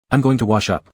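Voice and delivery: slow and a little tipsy; lazy drunken drawl. Acted. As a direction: let the words drag lazily. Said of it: "Lu Che's voice dragged lazily".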